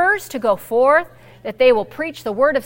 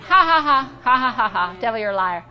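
mock laugh. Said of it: "I just started laughing".

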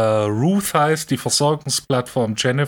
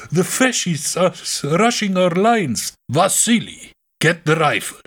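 urgent soldier report; 5 semitones higher than usual. Retold or imitated. Soldier reports enemy rushing.

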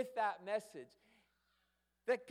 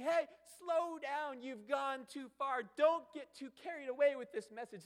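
cautioning Paul; 5 semitones higher, 5 dB louder than usual. Retold or imitated. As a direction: rein the listeners in like a worried parent. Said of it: "and then is he saying".

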